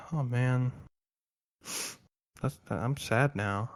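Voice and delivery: hammed-up, slow, mopey sigh of a line; mock dejected. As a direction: let it sag like a sulking kid. Gilliman after Dad's rejection.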